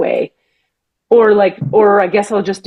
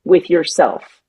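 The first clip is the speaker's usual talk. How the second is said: channeled voice; 3 semitones lower than usual. Retold or imitated. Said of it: "it says".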